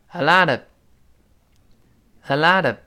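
a lot of slowly, t voiced into of; linked a lot of. Shown as a demonstration. Teacher demonstrating the voiced t in a lot of. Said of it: "浊化变成a lot of".

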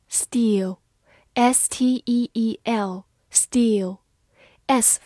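very slow whispered letters; drawn-out whispered drill; slow whispered spelling. Shown as a demonstration. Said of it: "spelling aloud, whispered".

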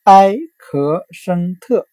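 哀咳声特 slowly, syllable by syllable, as a sound-alike for "accent"; slow, separated 哀, 咳, 声, 特 mimicking the English word; Chinese sound-alike. Shown as a demonstration. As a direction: say 哀咳声特 as four spaced Mandarin syllables. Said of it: "它的发音很像汉语的".

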